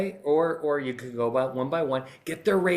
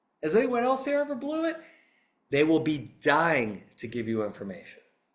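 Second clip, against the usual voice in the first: earnest, moved, emotional, heartfelt delivery. A podcast speaker giving advice to listeners, getting emotional. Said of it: "I'm actually getting emotional during this podcast".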